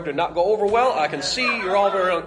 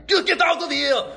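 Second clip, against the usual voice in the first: a much higher shout to throw him out; sharp shout; 13 semitones higher than usual. Acted. Nurse yelling at Ash to get out of the hospital. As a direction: chase him off with a yell.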